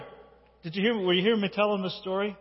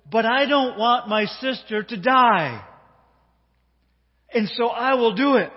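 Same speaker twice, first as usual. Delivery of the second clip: determined cry; 6 semitones higher, 8 dB louder than usual. Retold or imitated. Brother resolving to save sister.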